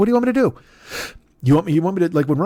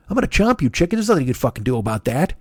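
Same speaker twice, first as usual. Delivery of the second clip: mock threat. Threatening a chicken.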